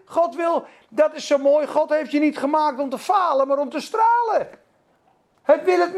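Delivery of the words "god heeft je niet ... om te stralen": ordinary talk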